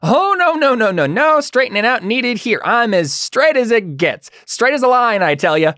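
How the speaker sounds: very high, loud, frantic denial; high-pitched, over-insistent henchman; Jack. Acted. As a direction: protest your innocence in a squeaky-high voice. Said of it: "Jack says".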